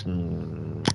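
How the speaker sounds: smack your lips like the drink is delicious. Retold or imitated. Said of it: "They just smack and smack your lips".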